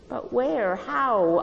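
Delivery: high, loud tearful plea; dissolving in tears. Acted. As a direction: break down as you ask. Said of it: "I dissolved in tears".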